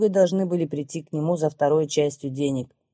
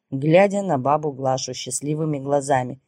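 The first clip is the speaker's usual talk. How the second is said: usual speaking voice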